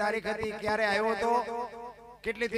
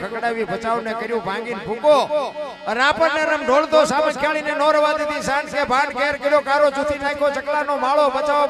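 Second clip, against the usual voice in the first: louder rhythmic verse, driving each line home; louder, rhythmic folk-verse chant rolling from town to town; folk poem recitation; 3 dB louder than usual. Acted. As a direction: declaim the earthquake ballad to the crowd. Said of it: "એની તમને યાદી કરાવું".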